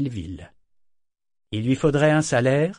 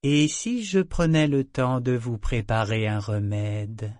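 slow, gracious and sweet; graciously. Acted. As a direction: offer it with false kindness. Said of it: "déclara-t-elle gracieusement".

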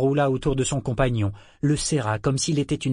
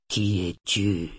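insistent questioning; 3 semitones lower, slower than usual. A narrator's reading. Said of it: "interrogeait-il sans répit".

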